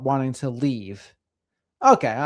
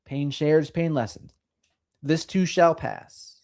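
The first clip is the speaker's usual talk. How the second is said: gentle singsong recital of sayings; sing-songy. Shown as a demonstration. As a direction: lilt it so they all remember. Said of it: "in the sing-songy way to help you all remember".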